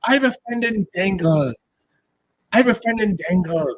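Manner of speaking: lightly imitated Irish bartender; Irish accent. Telling friends how the Irish bartender talked, imitated Irish accent. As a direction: put on a bit of an Irish lilt. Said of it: "the Irish accent's a good accent".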